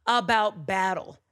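slow, loud, high disbelief; incredulous king. Acted. Saul doubting the shepherd boy, slow loud disbelief. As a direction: scold the boy for his nerve. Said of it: "Saul goes".

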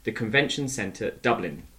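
smooth sponsor read for a conference centre. Acted. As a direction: read the sponsor message like a radio ad.

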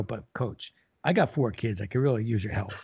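soft, understated appeal; imitated plea. Father of four asking coach for help, softly pleading. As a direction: plead quietly, retelling a phone call.

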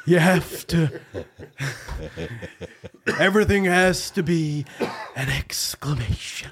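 laughing Jack Nicholson exclamation; hint of Jack Nicholson; Jack Nicholson impression. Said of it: "when you're doing Jack".

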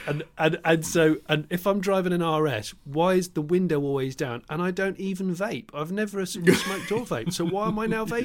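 complain, incredulous and laughing; exasperated. Pretend. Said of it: "He's like".

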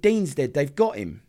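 high, loud relay of her panic; retold screaming. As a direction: imitate her screamed news, falling off. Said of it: "And she's screaming".

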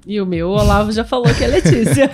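laughing. Real, not acted. Laughing correction after husband's intro.

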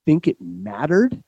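slow, weighty mock incredulity; so serious. Parking guy questioning the driver's excuse, so serious. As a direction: imitate a stern official, drawing out each word. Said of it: "he got fucking so serious".

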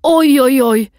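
high, loud mock-dismayed child; imitated toddler. Mother imitating son reciting his storybook line, high mock dismay. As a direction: exclaim in a high child's voice, drawing it out. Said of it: "säger han exakt på replik".

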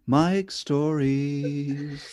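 slow, drawn-out jingle voice; drawn-out radio ident; jingle announcement. Pretend. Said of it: "a separate jingle in where it goes".

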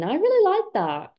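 high-pitched mock British approval; playful British admiration; fake British accent. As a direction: approve like a put-on Brit. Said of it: "with the British accent".

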